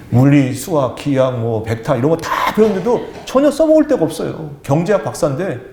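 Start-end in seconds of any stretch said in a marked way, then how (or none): none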